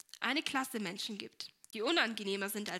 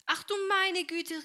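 high, slow, louder exclamation; startled cry; 9 semitones higher, 5 dB louder than usual. A narrator's reading. Helene gets soaked by dishwater, startled cry. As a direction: draw out a cry of dismay. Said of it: "rief Helene".

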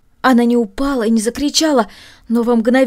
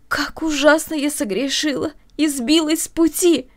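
aloud; 6 semitones higher than usual. A narrator's reading. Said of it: "громко произнесла она".

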